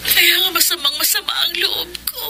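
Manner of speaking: tearful, hushed and breaking; crying whisper. Acted. Cheryl tells her cousin Lily of her hurt, weeping softly. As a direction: whisper it through tears.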